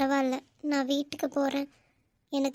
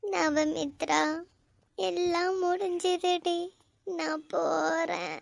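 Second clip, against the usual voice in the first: tearful farewell; 3 semitones higher, much slower than usual. Acted.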